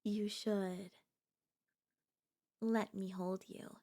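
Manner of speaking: breathy whispered offer. Acted. Girlfriend whispering to her nervous date, close whisper. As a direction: breathe it right into his ear.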